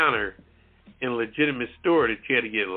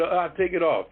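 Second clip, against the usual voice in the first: light Spanish accent imitation; 3 semitones higher than usual. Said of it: "you know, in a, in a Spanish, uh, accent".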